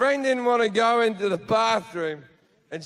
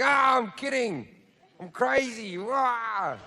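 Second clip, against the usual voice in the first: mock kidding; 3 semitones higher, slower than usual. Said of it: "cover your steps very quickly by going".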